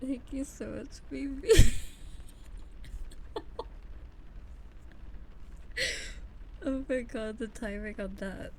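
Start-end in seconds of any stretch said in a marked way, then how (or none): 0.0-1.5 real choked-up thanks; teary thanks. Real, not acted. Thanking through tears and laughter. 1.5-6.6 shrieking breathless laugh, louder; real shrieking laugh; loud high laugh. Real, not acted. Laughing fit.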